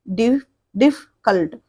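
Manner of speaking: "डिफिकल्ट" in separate chunks, restarting the first; syllable by syllable. Shown as a demonstration. Teacher counting syllables in "डिफिकल्ट", broken into pieces. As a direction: break "डिफिकल्ट" apart with small pauses. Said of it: "तीन syllable का है".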